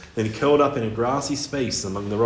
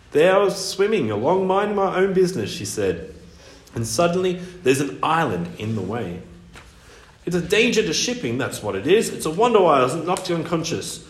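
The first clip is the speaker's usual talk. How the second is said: indignant mermaid voice; 6 semitones higher than usual. Acted.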